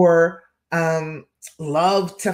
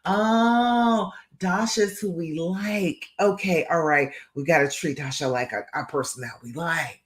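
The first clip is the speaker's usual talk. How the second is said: voice of the brain. Retold or imitated. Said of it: "And now your brain says".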